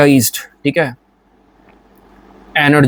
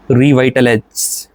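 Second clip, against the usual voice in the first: slow ad-style word; 2 semitones lower, slower than usual. Shown as a demonstration. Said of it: "Salman Khan साहब एक ऐड करते हैं".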